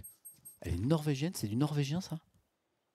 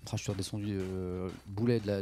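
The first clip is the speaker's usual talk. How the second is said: ordinary delivery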